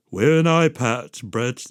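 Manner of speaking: lightly voiced Jermaine, slow and deadpan; a hint of Jermaine, slow flat order; Jermaine quote. Jermaine as a famous singer telling Brett to wear an eye patch, slowed. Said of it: "this is a Jermaine quote".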